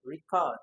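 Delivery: "record" as ree-CORD; second-syllable stress. Shown as a demonstration. Teacher reads the options, "record" stressed on the second syllable. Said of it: "It is a verb to be record".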